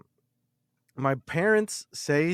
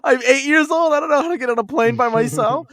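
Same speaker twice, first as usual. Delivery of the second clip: retold panic; 9 semitones higher, 9 dB louder, faster than usual. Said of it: "I'm like".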